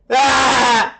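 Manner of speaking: high-pitched demonstrative "ah!"; emotional "ah". Shown as a demonstration. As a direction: let out an "ah" with exaggerated feeling. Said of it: "add a little emotion, a little frequency".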